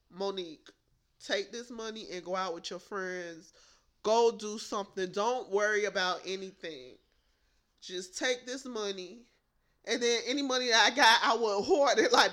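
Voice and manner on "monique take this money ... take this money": a hint of a gentle mother, softer and lower; mama's voice. Mom softly urging broke daughter to go out. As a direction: coax her kindly, softly. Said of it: "my mama was like".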